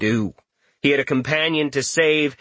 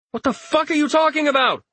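high angry snap; snapping. Acted. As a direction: lash out in frustration. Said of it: "Richter snapped".

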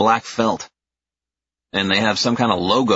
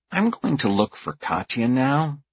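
talking through clenched teeth; gritted teeth, holding back temper; 6 semitones higher than usual. A narrator's reading. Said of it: "say through gritted teeth".

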